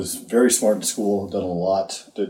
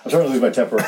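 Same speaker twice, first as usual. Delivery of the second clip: ordinary talk, nothing marked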